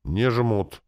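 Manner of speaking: a touch of stern rebuke. A narrator's reading. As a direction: shut it down sternly. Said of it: "ответил я строго".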